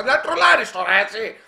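high and loud, laughing at the troll; amused real laugh; laughing accusation. Real, not acted. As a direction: laugh it out at him.

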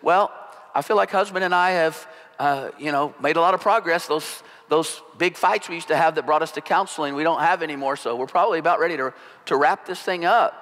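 brisk and upbeat, wrapping things up; bright efficient chirp, sped up near the end; lightly voiced wife, cheerful and matter-of-fact; cheery businesslike. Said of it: "kind of a cheery, businesslike tone".

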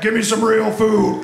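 a demanding stomach goblin, slowed down. Pretend. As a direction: growl it out like the angry gut goblin. Stomach goblin demands real food.

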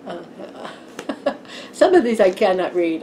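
giggling through the words; laughing. Real, not acted. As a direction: laugh as you say it. Laughing at the cards.

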